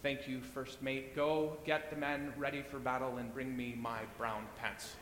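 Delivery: deadpan calm for the punchline; calm captain. Acted. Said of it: "Captain said calmly".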